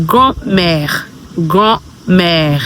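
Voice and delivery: "grand-mère" as "graw-mair"; French pronunciation. Shown as a demonstration. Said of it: "grandma in a French word as".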